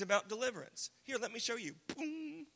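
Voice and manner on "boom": high held "boom"; imitated boom. Shown as a demonstration. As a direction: make a little boom noise, pitched up. Imitates a sound after "show you.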